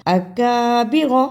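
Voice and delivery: اکابر said slowly with a soft front کاف; soft kaf. Shown as a demonstration. Teacher repeats the word for students, soft kaf. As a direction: keep the کاف of اکابر light, never thick. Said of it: "اس کاف کو نرمی سے پڑھا".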